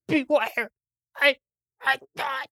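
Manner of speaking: last words of a creature; dying creature. Acted.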